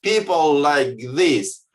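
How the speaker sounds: mock-indignant protest, pitch pushed up; indignant outburst. Beer lover fuming at the closed kiosk, indignant. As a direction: play the outraged customer fuming at the sign. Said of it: "he is erupting".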